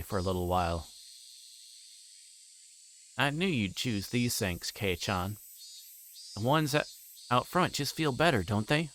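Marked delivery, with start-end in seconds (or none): 3.2-8.9 lightly voiced teasing girl, pitched up on the middle lines; a hint of a sly, knowing schoolgirl; teasing Mion. Mion teasing Kei-chan at the sinks, light sly girl voice.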